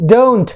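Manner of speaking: don't with one long gliding o; model pronunciation. Shown as a demonstration. Teacher shows how don't is pronounced, modelled carefully. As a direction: say "don't" as DOHNT, drawn through the vowel. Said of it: "अब इसके pronunciation देखिए".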